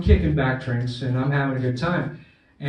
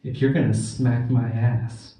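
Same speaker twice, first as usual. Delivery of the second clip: lightly voiced stripper; 3 semitones lower, much slower than usual. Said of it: "and she goes".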